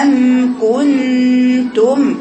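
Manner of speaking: أم كنتم drawn out very slowly with the lips closed on each م; lips closing on the mim. Shown as a demonstration. Teacher showing her girls the mim, lips fully closed, very slow. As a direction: hum the م of أم with lips sealed, very slow. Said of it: "مش تيجي للميم الأخيرة".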